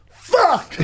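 sudden high, loud curse; costumed mascot cursing after a kid's slap, high loud yelp; pained yelp. Retold or imitated. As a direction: yelp it like you just got slapped in the head. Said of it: "the best part about it in the suit".

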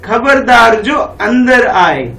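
slow, stern warning; lightly acted stern papa; mock stern father. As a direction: warn like a strict dad. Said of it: "क्या कहते हैं".

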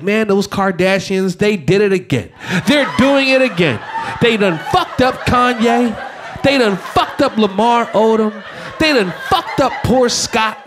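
chuckling through a mock lament; laughing mock lament. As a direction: laugh while listing their victims. Friends mocking Bruce, laughing.

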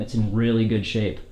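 usual speaking voice

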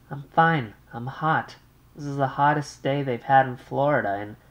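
light high polite thank-you; brisk thanks to the operator; Muriel's polite thanks. Acted. Young wife thanks the operator, lightly polite.

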